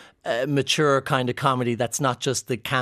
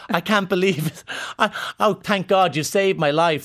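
camp exclamation; 6 semitones higher than usual. Pretend. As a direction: ham up a scandalised camp man. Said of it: "As if I was gonna go".

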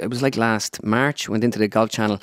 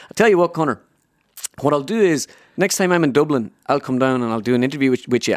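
lightly impersonated pundit, slightly raised; a hint of his voice, pitched up; Joe Brolly; 3 semitones higher than usual. Pundit offering an interview by phone, light impersonation. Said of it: "he goes".

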